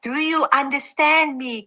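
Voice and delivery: slow imitation of a tourist talking down. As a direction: stretch it out as if to someone who can't follow. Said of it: "you speaking louder and slower".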